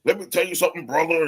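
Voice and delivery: a light gravel of a wrestling promo; imitating a wrestler cutting a promo; Hulk Hogan impression. Mocking the wrestler to his friends, light Hulk Hogan promo voice. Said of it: "That's Hulk Hogan".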